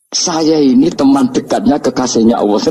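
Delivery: high, proud challenge to the angels; a hint of Umar's defiant voice, pitched high; bold retort. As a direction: puff up and ask who they think they face. Umar confronting Munkar Nakir.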